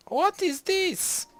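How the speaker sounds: shrieked high, loud and slow, mock shock; hammed-up high-pitched disbelief; mock outrage. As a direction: squeal it like a scandalised noble. Mock outrage at rival civ.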